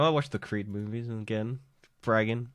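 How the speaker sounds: understated, matter-of-fact rundown of plans; unexcited. Real, not acted. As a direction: say it with little visible enthusiasm, almost monotone. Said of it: "You sound so excited for it".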